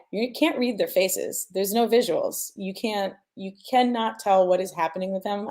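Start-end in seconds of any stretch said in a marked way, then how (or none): none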